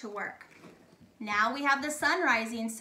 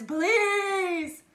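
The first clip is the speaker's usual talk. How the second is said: higher drawn-out plea; pleading; 6 semitones higher, 4 dB louder than usual. Shown as a demonstration. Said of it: "that's some good pleading".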